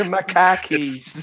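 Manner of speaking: drawn-out mock Boston accent. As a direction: stretch it slowly in a Boston accent.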